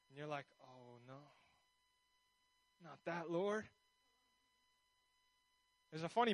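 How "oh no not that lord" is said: low, hushed reluctant plea; uncomfortable. Acted. Believer balking when told to follow, hushed reluctance. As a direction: shrink back quietly in mock dread. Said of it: "you get a little uncomfortable".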